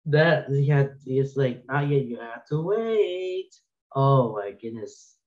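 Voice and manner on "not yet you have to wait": "Not yet. You have to wait" in a slow sing-song, the wait drawn out; little sing-song voice. Retold or imitated. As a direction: lightly mimic the toddler's creepy sing-song. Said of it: "in her little sing-song voice".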